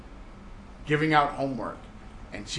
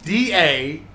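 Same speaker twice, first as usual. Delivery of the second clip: What, then hail stretched slowly, Southern American vowels; Southern drawl imitation; 6 dB louder, much slower than usual. Teacher imitates Janice's Southern What the hell, slow and stretched. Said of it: "it came out like".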